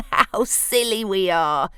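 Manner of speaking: laughing through the words; jiggly laughing. Acted. Bruce laughing at how silly they were. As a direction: chuckle as you speak. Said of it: "all a jiggle".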